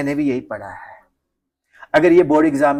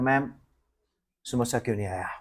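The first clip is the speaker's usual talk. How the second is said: quiet question; 6 semitones lower, 13 dB quieter than usual. Retold or imitated. Asking teacher softly.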